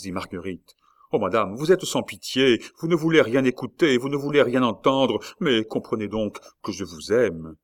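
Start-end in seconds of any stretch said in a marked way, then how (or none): 1.1-7.6 louder, higher pleading reproach; passionate outburst. Acted. La Mole declaring his love to the queen. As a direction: pour out your love, pressing.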